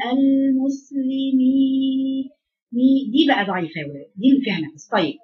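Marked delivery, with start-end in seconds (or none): 0.1-2.3 slow, gently imitated المسلمين; softer imitation. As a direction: imitate a soft delicate reading of المسلمين. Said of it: "بتقولها أنعم شوية". (تقليد قراءة ناعمة رقيقة)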